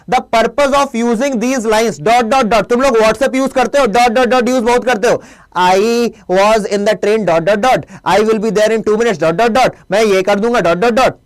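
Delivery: reading the question aloud slowly, pausing on each dot; teacher reading the question slowly, dot by dot. Shown as a demonstration. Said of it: "question पढ़ो".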